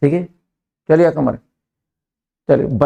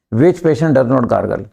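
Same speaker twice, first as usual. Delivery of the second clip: slow model sentence for the class; slow dictation; 2 semitones lower, much slower than usual. Shown as a demonstration. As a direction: say it word by word so they can copy. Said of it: "थोड़ा speed में आओ".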